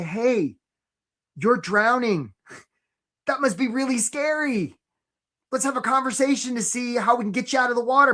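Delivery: caring offer. Shown as a demonstration. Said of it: "you wanna say".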